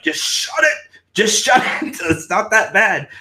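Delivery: playfully screaming at people; hammed-up shout; mock scream. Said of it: "just wanna scream at people".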